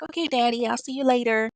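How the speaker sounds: put-on a daughter saying bye to daddy, lightly childlike; cute four-year-old. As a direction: say bye like a sweet small child. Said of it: "typical cute little four-year-old".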